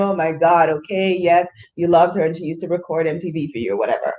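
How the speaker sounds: fast, exasperated eye-roll voice; mock impatience. Mocking an impatient friend tired of hearing about grandma, rushed and exasperated. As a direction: brush it off like you've heard it too often.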